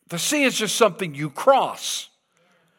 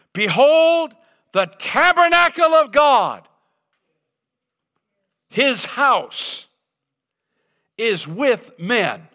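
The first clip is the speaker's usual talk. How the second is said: higher, louder proclamation; loud heavenly voice; 6 semitones higher, 4 dB louder, slower than usual. Acted. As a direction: call it out from heaven. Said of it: "a loud voice from heaven saying".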